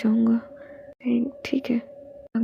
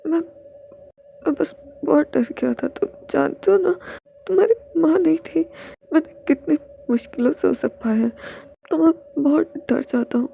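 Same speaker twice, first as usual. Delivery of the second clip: tearful apology; 4 semitones higher than usual. Acted. Father apologizing to children, crying.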